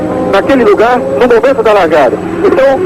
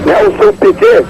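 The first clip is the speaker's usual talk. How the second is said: excited call; 10 semitones higher, slower than usual. Real, not acted. Piquet overtakes into fifth.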